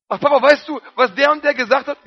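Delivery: a hint of a child telling tales; eager tattling child. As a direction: tell on someone to Papa. Telling God gossip.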